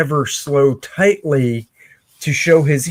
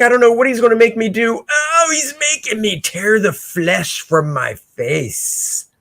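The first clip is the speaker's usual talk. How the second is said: mock panic; 8 semitones higher than usual. Panicked character voiced.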